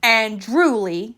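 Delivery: slow, theatrical mother's complaint; lightly voiced dramatic mama. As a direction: ham up the disgust. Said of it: "she added dramatically".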